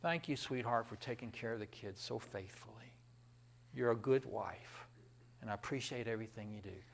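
soft, low grateful husband; tender thanks. Pretend. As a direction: speak gently to your wife.

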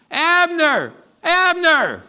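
high, loud call across the hills. Acted. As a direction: shout the name to a far hill. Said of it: "He yells to Abner".

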